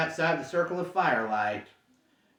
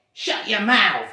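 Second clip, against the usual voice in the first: slow, loud troll growl of shut up; a troll silencing his mate, slow and loud; gruff troll snapping; 4 semitones higher, 6 dB louder, slower than usual. Acted. Troll William snapping at Bert, slow and loud.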